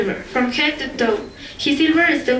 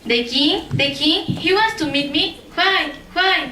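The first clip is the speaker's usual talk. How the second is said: mildly startled, rising questions; puzzled young woman questioning the news; surprised girl; 3 semitones higher than usual. Acted. Girl hears startling royal summons.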